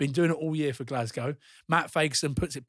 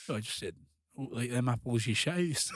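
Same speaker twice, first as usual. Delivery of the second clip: mock Scottish accent; 4 dB quieter than usual. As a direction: casually own up in a put-on Scottish accent.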